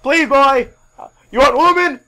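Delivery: loud, high, hammed-up wailing rant; wail, then holler and whoop; Ric Flair. Flair just punched in the face, wailing and hollering. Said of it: "and then Flair's like".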